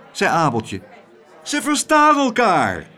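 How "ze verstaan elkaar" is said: opgewonden roep. Acted. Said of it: "riep mevrouw Cockle Smith".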